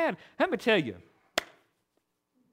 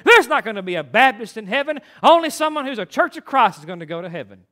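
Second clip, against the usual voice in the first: angry caller; 3 dB louder than usual. Retold or imitated. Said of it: "This is how she starts off".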